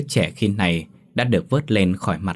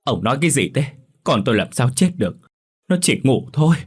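higher, sharp denial in a rising voice; snapping; 5 semitones higher than usual. A narrator's reading. Mother snapping at her husband in denial, voice rising. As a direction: snap at him, refusing to believe it. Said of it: "mà quát".

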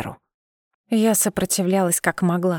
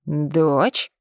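puzzled; 4 semitones lower than usual. A narrator's reading. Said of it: "Бровь Миранца недоумённо взлетела вверх".

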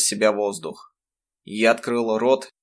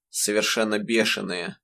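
ordinary delivery

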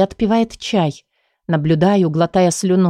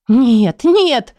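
second no cries out much higher and louder; desperate denial; 4 semitones higher, 4 dB louder than usual. Acted. Patient refusing the psychologist's accusation, panicked. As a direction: shake it off in panic. Patient denies, clutching her head.

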